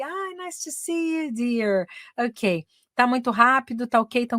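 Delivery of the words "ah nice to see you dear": high, soft, drawn-out welcome; lilting, stretched-out greeting; affectionate greeting. Real, not acted. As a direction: coo a slow hello to a dear student. Greeting a second student, Bel.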